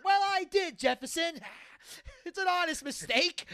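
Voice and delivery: high, giggling retelling of Archie; can't keep it straight, laughing; Archie's excuse retold while cracking up; laughing through the quote. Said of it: "and he's like".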